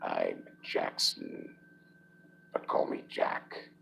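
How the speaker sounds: very high, slow and whispered; smiling introduction. Acted. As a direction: introduce yourself with a smile in a tiny high whisper. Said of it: "he smiled".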